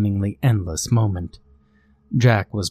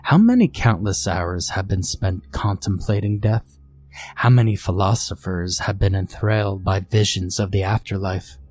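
low rasping voice. Acted. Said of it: "she spoke in a low, rasping voice".

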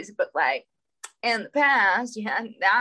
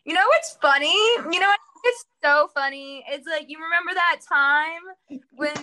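high, sing-song fake sweetness; sugary put-on cattiness at an old grievance; mock passive aggressive; 7 semitones higher than usual. Mocking her own passive aggressive self, high and sugary. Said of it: "then I'm like".

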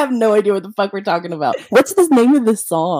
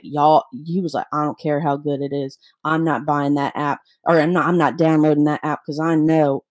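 imitating Joey; 5 semitones lower than usual. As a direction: lower voice, playing her husband. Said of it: "and he's talking just like that".

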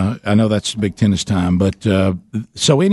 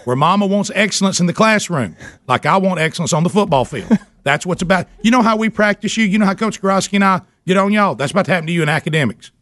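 high, giddy mock lecture with laughs; mock-scold the kid, half laughing; hammed-up rant; 9 semitones higher than usual. Dad ranting at son, laughing.

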